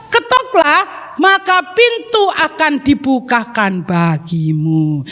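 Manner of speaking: drawn-out, measured memory-verse recitation; reciting together. Shown as a demonstration. Teacher reads the verse aloud with children, reciting. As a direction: lead children through it, stretching each command. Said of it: "ayo kita baca sama-sama".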